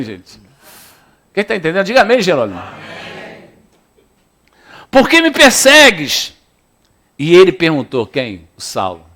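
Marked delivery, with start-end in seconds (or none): 4.9-6.3 high, slow divine question; voice of the Lord. Acted. Preacher voicing the Lord asking Saul, higher and slow. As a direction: ask it as God would. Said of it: "voice of the Lord".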